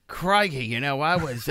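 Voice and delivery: put-on Australian accent. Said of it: "Australian accent, please".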